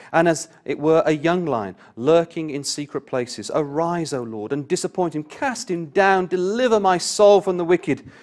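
loud, ringing high psalm reading, slowing on the lion line; fervent scripture reading. Acted. Preacher reading psalm to congregation, loud and fervent. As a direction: proclaim the psalm with full pulpit force.

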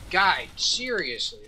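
loud, slow, fed-up plea; exasperated yell. Retold or imitated. Rafting tourists yelling at their guide, slow loud exasperation. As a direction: drag out a desperate shout at the guide. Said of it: "They're, like, screaming at this point".

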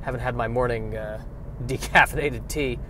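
sleepy, mid-yawn. Real, not acted. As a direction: talk through a yawn. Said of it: "I'm yawning".

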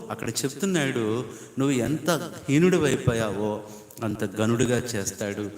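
usual speaking voice

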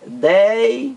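IDEIA split with DEI stretched and rising, then a pause before A; teacher's slow split of IDEIA; syllable by syllable. Shown as a demonstration. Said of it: "vamos separar aqui".

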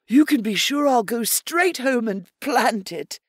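high, sweet-voiced rabbit promising eagerly; a keen little rabbit swearing he'll plant it; eager rabbit Pickett. Pickett the rabbit promising Errol, eager little rabbit voice.

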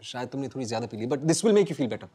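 soft, low calming voice; soothing. Acted. Calming Sameera as she gets upset, soft and soothing. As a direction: talk her down gently. Calming a distressed drunk woman.

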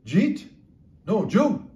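"Jeet? No, Jew." with each phrase squashed into quick syllables; high, loud "Jeet?" for did you eat, "Jew" for did you; run-together speech. Retold or imitated. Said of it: "that's emphasizing speed of the language".

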